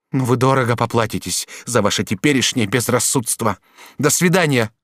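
wounded duchess lashing out; broken angry voice. A narrator's reading. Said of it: "сказала ему прерывающимся голосом". (прерывающимся от гнева голосом)

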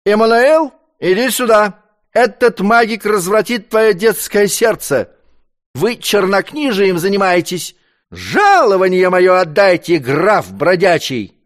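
loud, high indignant shouting; angry yelling. A narrator's reading. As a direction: yell at the count with fury. Drunk servant yells at count.

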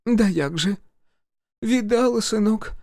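высокий суетливый голос матери; мать суетится, заглаживая обиду. A narrator's reading. Mother voiced high. (высокий хлопотливый голос матери)

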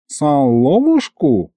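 suspicious. Acted. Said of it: "нахмурился дед".

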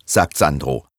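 ordinary delivery

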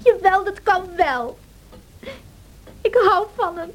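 tearful defiance. Acted. Isabella defiant through tears.

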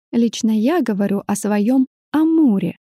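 pointed emphasis on "Амуре"; stress on the name. A narrator's reading. Woman corrects Arthur on her cat's name, stressing "Амуре". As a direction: set "Амуре" apart and lean on it. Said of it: "специально выделила имя кота интонацией".

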